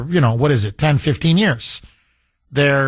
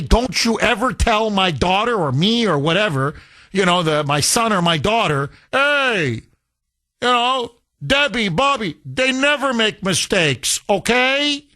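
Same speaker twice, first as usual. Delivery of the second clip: lightly voiced protective mother, pitched higher; indignant mother; 3 semitones higher than usual. Mother calling the boss to defend her child, mildly indignant. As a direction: act out a parent scolding, a touch hammed-up. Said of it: "have your mother call the boss".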